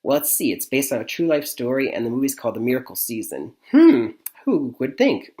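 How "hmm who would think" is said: mock wonder. Real, not acted. Sarcastic aside on true story.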